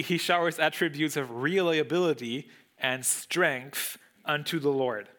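ordinary delivery

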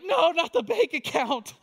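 high, loud cry of dread; a husband on the phone with his wife, dreading the bank account, yelping it out high and loud; panicked yelp. Retold or imitated. Dreading what wife will say.

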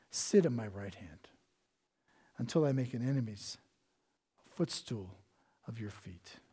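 soft, breathy hush of God's voice; quiet scripture hush. Acted. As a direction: let it drop to a near whisper. Whispered God's words in scripture reading.

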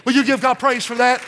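rolling, relentless sermon climax; fervent preaching, slowing grandly at the end; full-force preaching. Real, not acted. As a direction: drive phrase after phrase at the congregation.

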